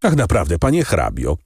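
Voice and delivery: ordinary delivery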